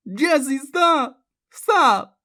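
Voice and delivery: high, loud, drawn-out plea; anguished yell. A narrator's reading. Grandmother yells between Jessie and Bobby, anguished. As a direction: yell for her to stop. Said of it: "her grandmother yelled, sobbing".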